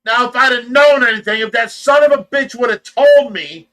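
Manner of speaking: indignant. Real, not acted. Outraged at the seller.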